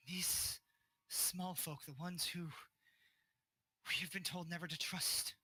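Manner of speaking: lightly acted guardian, halting plea building into indignation; lightly voiced pleading guardian. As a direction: plead your loyalty in measured phrases, with a touch of reproach. Game master voices Imrith pleading, then accusing.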